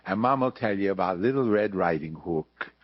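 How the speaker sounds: put-on hammy Jewish-accented Mama telling a bedtime fairy tale; Jewish dialect mama. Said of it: "how he pitched the Nize Baby".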